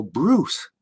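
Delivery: soft, admonishing name; lightly voiced reproachful dad; channeling his dad. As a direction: say the name like a disapproving father. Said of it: "That's my dad channel in me here".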